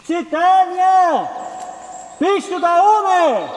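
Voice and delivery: calling out. Acted. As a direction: call out to someone far away. Calling up the shaft. (laut und gedehnt in die Ferne rufen)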